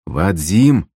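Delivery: put-on calling the drunk to attention. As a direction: snap him out of drinking. Calling him again.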